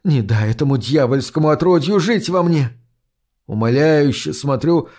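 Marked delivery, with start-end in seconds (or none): 0.0-2.7 choking on a foul brew; pleading while gagging. Acted. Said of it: "давясь противно пахнущей бурдой".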